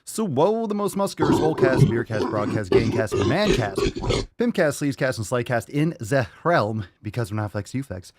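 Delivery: punchy, rolling announcer patter; hyped show intro. Acted. Host opening the Daily Swole episode, hyped intro. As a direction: rattle off the titles like a hype man.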